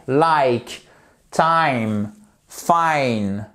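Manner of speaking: like, time, fine with the diphthong ai; English long i. Shown as a demonstration. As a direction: stretch each vowel into ai. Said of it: "Par exemple".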